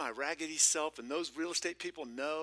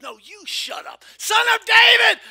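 much higher, much louder desperate cry; 24 dB louder than usual. Acted. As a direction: cry out to Jesus as the blind beggar. Beggar shouts back at crowd.

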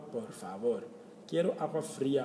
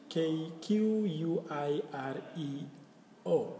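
slow spelling; 3 semitones higher than usual. Shown as a demonstration. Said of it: "spells quiero letter by letter".

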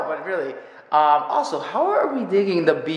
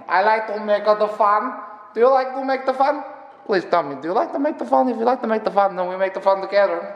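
a lightly put-on silly voice, higher; 4 semitones higher, faster than usual. Asking viewers if they like to make the fun, lightly goofy voice. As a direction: playfully pester the viewer in a goofy voice. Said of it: "I like to make voices".

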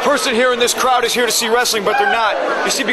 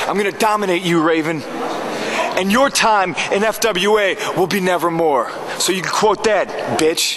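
low menacing threat; 5 semitones lower than usual. Acted. Threatening rival Raven.

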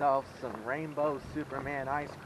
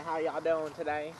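put-on a lighter, less loud try at the joke British accent; bad British accent; 3 dB louder than usual. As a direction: repeat the greeting in a half-hearted British accent. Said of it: "It's my British accent".

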